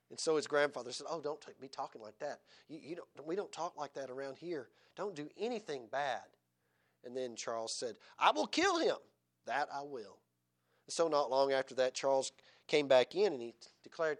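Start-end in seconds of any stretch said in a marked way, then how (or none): 1.1-6.2 soft scolding grandfather. Retold or imitated. Grandfather gently scolds boy. 8.2-10.2 put-on boy insisting.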